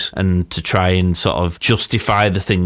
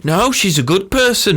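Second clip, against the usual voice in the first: higher-pitched mock-earnest protest; straight-faced earnest denial; 11 semitones higher than usual. Host mimicking the scientist defending Syra, mock straight-faced. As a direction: imitate someone earnestly defending a friend. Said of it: "really straight-faced going".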